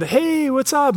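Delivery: high-pitched cheery call-out, imitated; casual greeting. Stepdad greeting the kid in the garage, high-pitched mock greeting. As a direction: sing out a friendly hello, well above your own voice.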